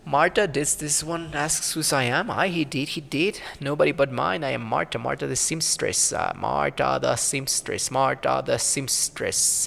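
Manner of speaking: lightly voiced old crone, muttering to herself; a hint of a grumbling crone; mumbling old crone. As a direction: play a cranky old hag talking to herself. Marta introduces herself.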